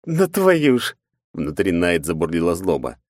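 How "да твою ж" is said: frustrated curse. Acted. Knight swearing.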